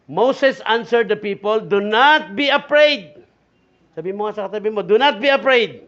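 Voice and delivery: loud, slow, punched-out scripture reading; emphatic preaching. Acted. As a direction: proclaim it to the congregation. Preaching at full force.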